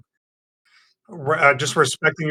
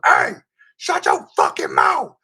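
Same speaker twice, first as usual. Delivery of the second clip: imitating a furious guy shouting a threat; mock threat; 12 semitones higher than usual. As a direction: bark it like a man who's had enough. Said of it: "stands up and goes".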